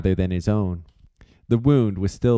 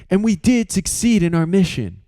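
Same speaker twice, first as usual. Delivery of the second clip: higher voice, steadying the room; peacemaker; 10 semitones higher, 3 dB louder than usual. Acted. Flux stepping between the two men, calming. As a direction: step in between them.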